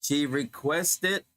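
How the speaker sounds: very slow, every word spelled out for the student; slow, careful model. Shown as a demonstration. Teacher models the corrected sentence for the student, slowly. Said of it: "Hey, accent".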